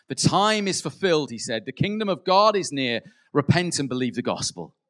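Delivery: proclaiming Jesus. Retold or imitated. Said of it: "First words of Jesus".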